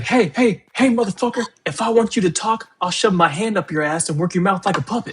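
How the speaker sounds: imitating Frank's yell. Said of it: "He's like".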